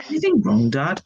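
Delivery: high, sugary innocent question; sweetest voice. Acted. Henry faking innocence to Dad, sweet. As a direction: play the innocent angel. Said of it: "in his sweetest voice".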